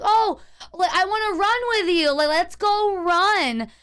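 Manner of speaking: high, eager mock drunk neighbor; imitating the lady. Neighbor lady's manic invitation.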